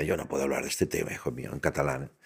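quick, soft and low mother's worry; soft worried mother. Retold or imitated. Mother telling her son she can't discuss it, quiet and worried. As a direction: gently fret like a mother. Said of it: "hasta mi madre me decía".

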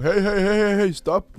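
high, loud mock yell of cinema staff; mock shouting. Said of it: "I må stå der og råbe".

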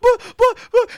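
high, loud spluttered protest; imitated high-pitched stammering; mock pleading stammer. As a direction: act out helpless, wordless pleading. Retold pleading at the employee.

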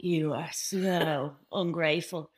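slow, lightly put-on scolding mum, laughing mid-line; mock scolding mum. Friend imitates her mum scolding her over dishcloths, slow mock scold. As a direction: drag out the scolding like her mother.

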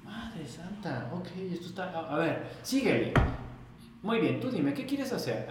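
half-stunned, then eager to start; amazed. Retold or imitated. Seeing 3D modeling for the first time, amazed and eager. Retelling his amazed reaction to software.

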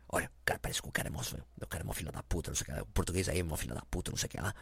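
hushed, fast gossip; fast whispered tip-off to a fellow Brazilian in line. Retold or imitated. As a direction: whisper the warning behind your hand. Warning passed along in the queue.

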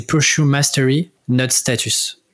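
English words in a light French accent. Shown as a demonstration. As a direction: say it the French way, self-mocking. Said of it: "je te le fais avec mon accent, euh, français".

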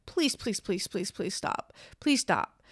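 begging softly, fading almost to a whisper; a weary mock plea to make it stop; pleading. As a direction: plead please over and over, then trail off breathless. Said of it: "everybody's just like".

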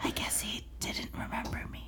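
breathy, hushed whisper; mock whisper. Heroine speaking to her friend Meg, in a mock whisper. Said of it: "she's whispering".

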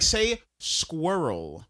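SQUIRREL stretched out slowly; very slow, plain "squirrel"; prompting slowly. Shown as a demonstration. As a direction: model "squirrel" patiently for a learner. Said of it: "trying to say the word squirrel to German people".

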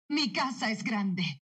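slow, drawn-out, understated excitement; excited. Shown as a demonstration. Dubbing actress adding emotion to a line, gently excited. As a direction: savour each word with mild emotion. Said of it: "dilo emocionada".

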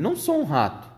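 high-pitched indignant protest; gritado. A narrator's reading. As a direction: cry out the denial, pitch leaping up. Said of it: "gritou ele". (protesto gritado, em tom agudo)

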